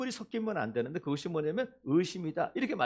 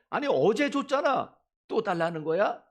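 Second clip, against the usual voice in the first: loud, high burst of acted exasperation; mock scolding; 3 semitones higher, 4 dB louder than usual. God imagined refusing a repeat request, loud mock scolding. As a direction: scold as if pestered for more. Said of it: "이렇게 꾸짖지 않으신다는 거야".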